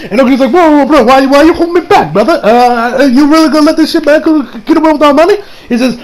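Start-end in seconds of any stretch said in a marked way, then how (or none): 0.5-5.4 mock indignant protest. Okuyasu protests being held back.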